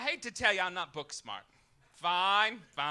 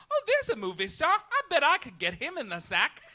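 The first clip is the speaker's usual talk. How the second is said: mock cocky crowd member; 8 semitones higher, 4 dB louder than usual. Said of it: "walk around the city just thinking".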